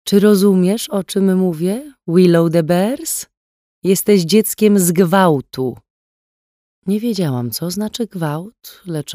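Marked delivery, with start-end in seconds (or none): 0.0-5.8 higher, louder, slow taunting; cold, cruel mother. A narrator's reading. Adoptive mother taunting little Willow, slow and cold. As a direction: spell it out cruelly to a small child.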